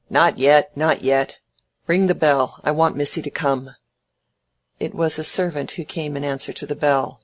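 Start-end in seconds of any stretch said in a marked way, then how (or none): 0.1-3.7 put-on loud, snappish old man; peremptory Featherstone. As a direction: cut in and give orders, easing off at the end.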